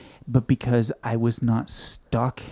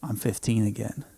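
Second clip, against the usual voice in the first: whispered realization; 6 dB quieter, slower than usual. Retold or imitated. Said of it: "And then I realized".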